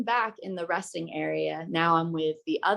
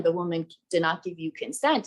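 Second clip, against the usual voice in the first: lightly voiced reasoning mansplainer; chivalrous man. Man stepping in to reason with the stranger, mock chivalrous. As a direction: explain it evenly, with a hint of self-appointed knight. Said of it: "decides to be the chivalrous man".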